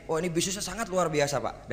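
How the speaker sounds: lively, lifted pitch on the pitch line; enthusiastic. Shown as a demonstration. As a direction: sell it with enthusiasm. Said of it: "Anda ngomong semangat atau datar gitu". (penuh semangat)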